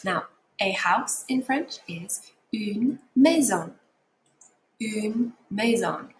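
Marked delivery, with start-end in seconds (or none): 2.5-3.8 une maison said the French way, nasal on maison. Shown as a demonstration. Teacher modelling une maison for students at home. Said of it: "Repeat it at home". 4.8-6.1 une maison slowly, each syllable clear; slow model. Shown as a demonstration. Teacher slowly models une maison for home learners. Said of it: "Repeat it at home".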